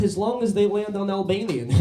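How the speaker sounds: high mock Serbian accent; broken English in a put-on Serbian accent. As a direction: imitate a Serbian driver landing his punchline. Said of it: "his English is so bad".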